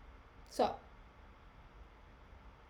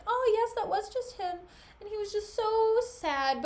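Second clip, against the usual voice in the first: gushing Desdemona; 6 semitones higher than usual. Acted. Paraphrases Desdemona pitying Cassio.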